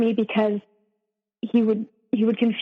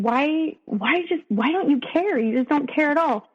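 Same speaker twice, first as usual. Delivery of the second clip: higher-pitched retold plea, no real sobbing; tearful plea; 4 semitones higher than usual. Crying to partner who screams at her, mildly acted tearful pleading. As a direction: imitate a hurt, pleading why, pitched up. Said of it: "I'm crying and I'm just saying".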